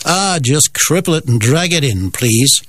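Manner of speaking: weak mock Canadian accent; a light, hammy try at a Canadian accent. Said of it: "That's possibly the worst Canadian accent you'll ever hear".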